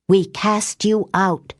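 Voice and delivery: slow, deliberate banishing chant; solemn witch's command; repeated incantation. A narrator's reading. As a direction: intone each word with finality. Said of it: "Mia repeated".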